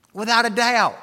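"Without a doubt" फिर से ज़ोर से, ऊँची आवाज़ में; second time, punch it up high. Real, not acted.

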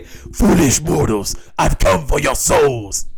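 slow, drawn-out evil warlord voice; menacing movie villain, savoring each word; slow theatrical villain menace. Retold or imitated. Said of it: "What do you say?".

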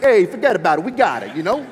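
high, loud, hammed-up New York mobster; New York mobster accent. Preacher acting out a men's group testimony, New York mobster accent. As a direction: play a pushy New York wiseguy. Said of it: "in a New York mobster accent".

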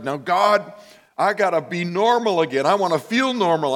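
mild mock pleading; pleading prayer. Pleading prayer, retold in sermon.

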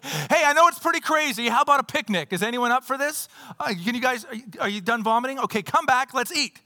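casually rally seasick shipmates, voice lifted; Paul. Acted. Acts out Paul proposing picnic in storm.

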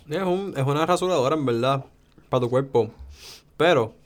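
talking through a bite of pizza; eating while talking; mouth full. Real, not acted. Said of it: "perdón, estoy comiendo un cantito de pizza".

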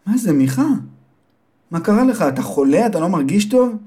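high, worried mother's voice. Acted. Mother asks her sleepy son if he is sick, high and worried. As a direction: fuss over him like a mother.

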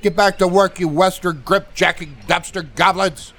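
high, furious captain's scream. Acted. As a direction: yell it from across the ship. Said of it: "You hear the captain scream".

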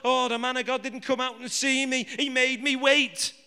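a touch of whiny moaning in Naaman's complaint. Retold or imitated. Naaman complaining the prophet made him wait, mild whine. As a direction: whinge lightly like a sulking captain. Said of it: "Listen to him moaning and complaining".

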